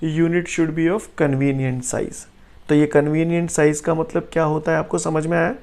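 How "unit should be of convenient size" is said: very slow, word by word; slow dictation. Shown as a demonstration. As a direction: dictate it slowly for notes. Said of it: "क्या characteristic होनी चाहिए?".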